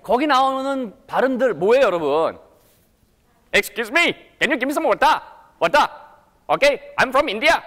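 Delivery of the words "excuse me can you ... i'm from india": Indian-accented English, higher and sing-song. Shown as a demonstration. Teacher imitating Indian English from a film, Indian accent. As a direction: put on a movie Indian accent. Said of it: "이게 바로 인도 액센트예요".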